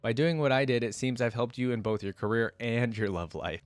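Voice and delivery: measured storytelling read; steady audiobook narration of a fantasy tale; story narration. A narrator's reading. Reads the story aloud.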